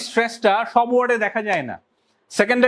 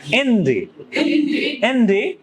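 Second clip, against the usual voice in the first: ইন ডি with IN stressed and DI weak; teacher's model of ইন ডি with an unstressed second syllable; slower than usual. Shown as a demonstration. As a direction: lean on ইন, let ডি go lightly. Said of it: "ডি একদম আস্তে হয়ে যাচ্ছে".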